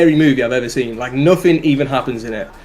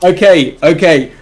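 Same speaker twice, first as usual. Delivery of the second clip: laughing. Real, not acted. Recovering from laughter.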